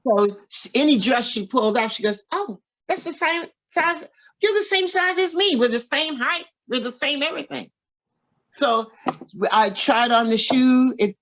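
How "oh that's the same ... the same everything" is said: much higher, delighted squeal of discovery; delighted exclaiming. Retold or imitated. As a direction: gush about the match in a high thrilled voice. Tina delighted at matching size.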